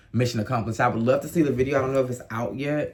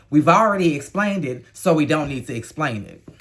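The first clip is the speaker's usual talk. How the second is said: louder, pointed take on 'We've already explained it'; mock quoting; 4 dB louder than usual. Host throwing Rachel's words back, pointed. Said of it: "What you said is".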